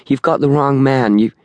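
high, urgent, a touch breathless; breathless protest, cut off. A narrator's reading. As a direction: blurt it out as if short of breath. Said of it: "suddenly seemed breathless".

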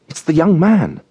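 high, quick gasp of recognition; a boy's sudden start of fear; startled realisation. Acted. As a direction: pitch it up, heart jumping. Boy recognising man in mist.

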